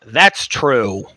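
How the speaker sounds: a whispered confirmation; whispered aside. Real, not acted. Confessing to podcast listeners, whispered aside. Aside after hating the teachers.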